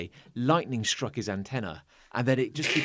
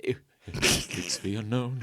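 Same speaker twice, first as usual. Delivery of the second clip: slow, flat robotic read; 5 semitones lower, slower than usual. Retold or imitated. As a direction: intone it like a machine. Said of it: "he says it like a robot".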